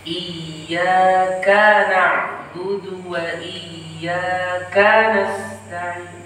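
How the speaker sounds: the ka of iyyaka stretched out long, iyyakaa, recited slowly; long kaf vowel. Shown as a demonstration. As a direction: draw out the fathah on the kaf of iyyaka. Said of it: "memanjangkan harokat fathah pada kaf". (fathah pada kaf iyyaka dipanjangkan)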